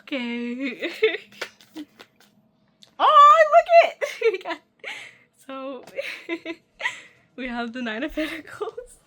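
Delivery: overjoyed laugh-cry at the card; laughing through tears. Real, not acted. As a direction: burst out laughing while still teary. Tearful excitement at new card.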